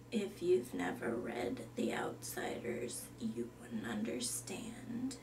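deadpan whispered goth; a goth girl whispering dryly. Acted. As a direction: breathe it out, flat and gloomy. Goth Summer cites The Outsiders.

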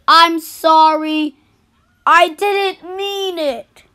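slow crying apology; slow tearful sorry. Acted. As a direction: apologise through tears, slowly. Apology after outburst.

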